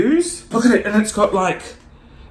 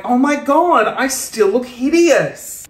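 higher, slow mock dismay; mock self-critique; 4 semitones higher, slower than usual. Viewer seeing themselves on camera, mock dismay. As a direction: play someone shocked at their reflection.

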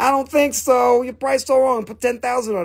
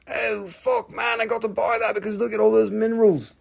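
mock awe, pitched up from his patter; imitating a tempted buyer; 3 dB quieter than usual. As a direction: play the customer who must have it. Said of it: "You're gonna be like".

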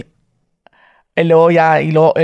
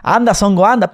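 slightly raised dub-actor voice; Spain dub voice; 3 semitones higher than usual. Retold or imitated. Demonstrating Dragon Ball in Spain's Spanish, lightly voiced dub. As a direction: lightly act the dubbed cartoon line. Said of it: "todo en español así".

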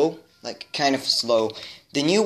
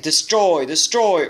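loud, higher robotic command; 4 semitones higher, 4 dB louder than usual. Retold or imitated. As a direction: chant it like a toy robot. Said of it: "make them say something like".

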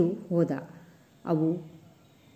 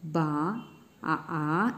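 drawn-out imitated calf bleat; mild mock bawl of a calf, stretched out; calf's bawl; 4 dB quieter, much slower than usual. A narrator's reading. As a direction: bleat like a calf, without much force. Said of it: "ಎಂದು ಕಿರುಚಿತು star".

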